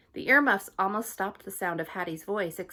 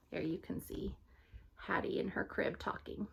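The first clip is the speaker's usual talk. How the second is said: soft, unvoiced aside; hushed aside; 8 dB quieter than usual. Real, not acted. Teacher showing the class the picture, whispered aside. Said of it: "showing picture, aside".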